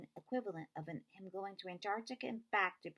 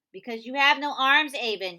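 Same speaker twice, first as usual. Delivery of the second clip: loud exasperated shout; 8 semitones higher, 17 dB louder than usual. A narrator's reading. Connor shouting at Avon in exasperation, loud. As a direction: throw it at her, fed up. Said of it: "he shouted at me in exasperation".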